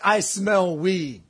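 slow, drawn-out "I smell weed"; stubborn, stretched-out "I smell weed"; retold insistence. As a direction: insist slowly, leaning on each word of "I smell weed". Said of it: "I was like".

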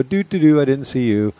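lightly hummed playing innocent; feigned obliviousness. Security guard turning away from smokers, feigned obliviousness. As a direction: act like you noticed nothing. Acting as if nothing was seen.

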